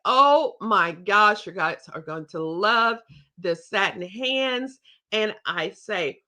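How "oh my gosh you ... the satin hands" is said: excited sales pitch. Shown as a demonstration. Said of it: "So I say".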